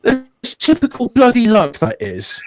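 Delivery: high-pitched, laughing outrage; exasperated outburst. Real, not acted. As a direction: wail at your rotten luck in the game. Curses his unusable doubles roll.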